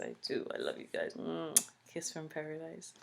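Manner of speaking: soft, low, near-whispered affection; softly blown-kiss tenderness; tender affection. Real, not acted. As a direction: drop to an intimate hush for the fans. Tells viewers she loves them.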